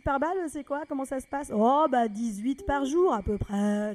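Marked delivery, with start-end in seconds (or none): 2.1-3.9 slow, matter-of-fact; slow deadpan. Retold or imitated. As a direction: drag it out casually. Deadpan reported answer. (lent, d'un ton détaché)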